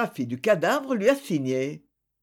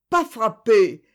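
"pas frappé" repeated even louder and higher; louder repetition; 4 semitones higher, 6 dB louder, slower than usual. A narrator's reading. Accused man repeats his denial, higher and much louder. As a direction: push "pas" harder in the repetition. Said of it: "répétait infatigablement".

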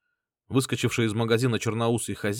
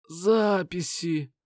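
very slow, higher groaning word; moaning; 8 semitones higher, much slower than usual. A narrator's reading. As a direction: moan it out through the pain. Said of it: "простонал Лин".

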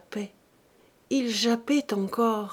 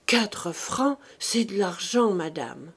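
resigned; slower than usual. Acted. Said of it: "toujours résignée".

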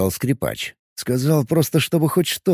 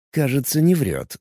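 ordinary delivery, nothing marked

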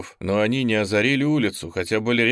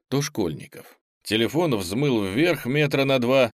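usual speaking voice

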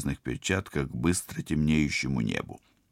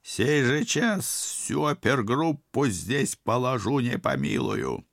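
villain voice; 8 semitones higher, slower than usual. Acted. Koshchei threatens.

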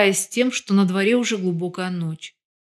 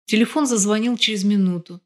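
ordinary delivery

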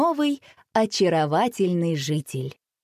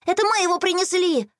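put-on much higher, quick boyish explaining; hasty explanation; 11 semitones higher than usual. A narrator's reading. Boy explaining to mum, high hasty child voice. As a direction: rush to explain. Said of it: "поспешно объяснил Рома".

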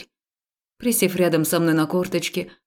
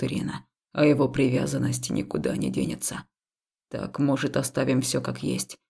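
lightly lower, softer, measured male voice; calm temple man; 4 semitones lower, 3 dB quieter than usual. Acted. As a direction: reason with her gently. (спокойный храмовник, чуть ниже и тише)

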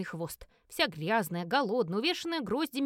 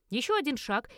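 ordinary delivery

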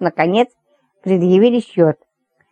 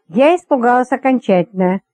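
ordinary delivery, nothing marked

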